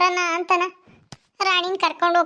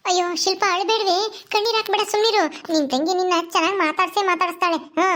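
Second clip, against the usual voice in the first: consoling mother-in-law; 3 semitones higher than usual. Acted. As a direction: hush a crying neighbour. Voices older woman consoling.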